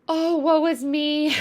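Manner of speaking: airy, whispered high lament; woe-is-me victim. Acted. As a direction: sigh it out like a self-pitying victim. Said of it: "a victim is somebody who's like".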